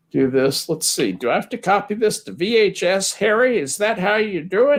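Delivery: high, playful put-on voice; high-pitched silly character. Asking Harry about copying to V H S, high silly voice. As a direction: pitch it way up, mock-clueless about the tech.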